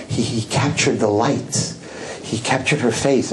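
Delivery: lightly voiced reverent tour guide; museum curator. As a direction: imitate a curator marveling at a masterpiece. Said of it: "And the curator says".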